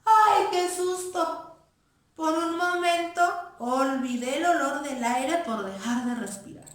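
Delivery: high, loud, sing-song fright; frightened mouse. Acted. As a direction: squeal it out in fear. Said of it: "muy asustado".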